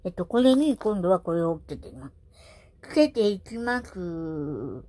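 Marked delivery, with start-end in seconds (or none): 2.9-4.8 つけていきます said at half speed, each syllable stretched; ゆっくりと つけていきます; slow, drawn out. Shown as a demonstration. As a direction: spell out つけていきます slowly, like a tutorial.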